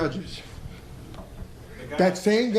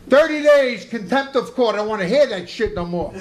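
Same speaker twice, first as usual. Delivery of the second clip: mock judge's rebuke; 5 dB louder than usual. Acted judge scolds the defendant.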